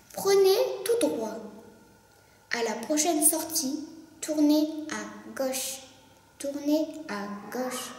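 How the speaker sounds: gps voice. Acted. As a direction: read directions like a satnav. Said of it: "Imite la voix féminine du G P S". (voix de GPS)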